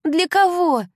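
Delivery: high, loud angry cry; furious young woman shouting. A narrator's reading. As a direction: yell at her friend in outrage. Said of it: "крикнула Кайли".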